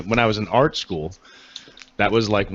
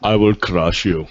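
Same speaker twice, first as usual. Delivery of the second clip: Drago. Pretend.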